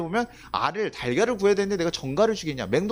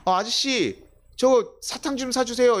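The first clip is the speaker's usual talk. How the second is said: put-on child begging; 6 semitones higher, 3 dB louder, slower than usual. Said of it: "옆에 지나가는 아이가요".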